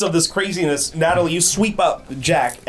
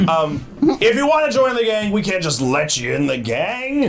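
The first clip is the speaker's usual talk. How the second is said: goblin leader voice; 3 semitones higher than usual. Acted. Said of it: "I don't know what accent this is".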